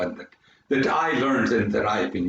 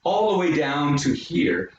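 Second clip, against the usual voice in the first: descending note demo; 3 semitones higher than usual. Shown as a demonstration. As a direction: start high on "here" and step down on each "da". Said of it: "if you heard me say this note here".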